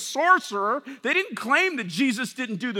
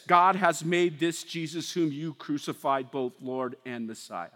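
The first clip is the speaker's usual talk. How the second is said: much lower and softer, fading; hushed sermon climax; solemn reading; 8 semitones lower, 5 dB quieter than usual. Acted. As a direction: let the words sink low.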